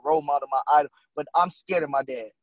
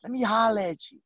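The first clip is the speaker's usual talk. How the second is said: imitated raspy father, higher pitched; 6 semitones higher than usual. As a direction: play the raspy dad summoning his kid. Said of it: "in that raspy voice".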